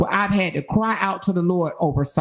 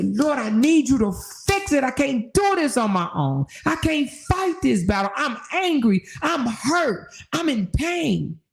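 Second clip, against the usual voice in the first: pleading prayer; 6 semitones higher than usual. Retold or imitated. Voicing a desperate prayer.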